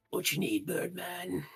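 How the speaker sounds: a lightly voiced reptile merchant greeting; lizard folk voice.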